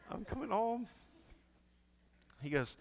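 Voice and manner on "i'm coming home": much higher and louder, laughing through it; laughing mock prayer. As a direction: repeat the plea cracking up. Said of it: "I'm like".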